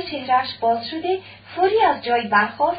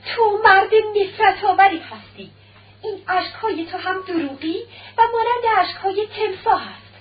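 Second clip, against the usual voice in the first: furious cry; 6 semitones higher than usual. Acted. Wife accusing her unfaithful husband, shouting in fury. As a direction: hurl hatred at the cheating husband. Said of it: "متحسر و خشمناک فریاد برآورد".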